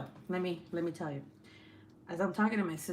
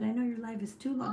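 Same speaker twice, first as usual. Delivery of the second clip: imitating her son; 4 semitones higher than usual. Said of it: "He, he said".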